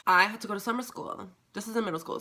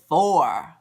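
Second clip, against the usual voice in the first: mock shout; 3 semitones lower, 9 dB louder than usual. Mock dramatic count to four.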